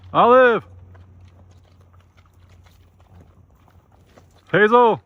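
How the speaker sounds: high, loud call; calling ponies. Real, not acted. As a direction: holler each name out to the pasture.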